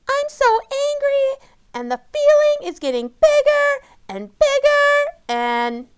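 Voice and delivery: high, loud rising rage; anger swelling out of control; furious. Acted. Amy's anger growing.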